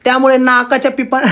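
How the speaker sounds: blocked nose, stumbling words; stuffy nose. Real, not acted. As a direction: speak through a stuffy nose. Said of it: "नाकाच्या पिपाने बंद झालंय".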